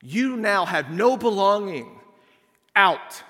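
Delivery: slow, firm casting-out. Retold or imitated. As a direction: push him out of the group. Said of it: "Like, this is a".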